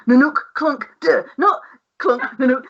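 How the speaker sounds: punchy spoken sound effects; imitated pipe clanks. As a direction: mimic banging pipes in broken rhythm. Mimicking noisy pipes' pattern.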